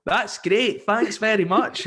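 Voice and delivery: mock overexcited thanks. Caller thanking host, hammed-up high excitement. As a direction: ham up a forced grateful caller. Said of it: "they would go".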